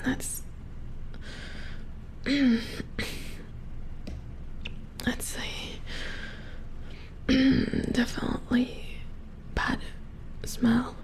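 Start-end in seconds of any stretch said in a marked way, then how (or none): 0.5-5.0 coughing at stench. Acted. Acted reaction to a foul smell. 5.5-7.9 coughing at stench. Acted. Acted reaction to a foul smell.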